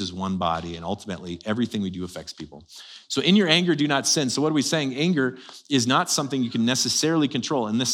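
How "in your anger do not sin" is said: "your" jumps high and loud, "not" stressed; emphatic scripture quote. Acted. Preacher repeating the verse to the congregation, emphatic. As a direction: declare the verse.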